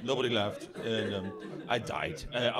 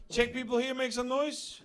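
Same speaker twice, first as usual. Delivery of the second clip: crowd hype call; 12 semitones higher than usual. Real, not acted. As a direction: pump up the Czech audience, shouting high. Hyping the crowd at show start.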